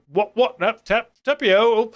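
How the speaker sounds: bad British accent. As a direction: do a clumsy mock-British accent. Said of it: "me trying to do a British accent".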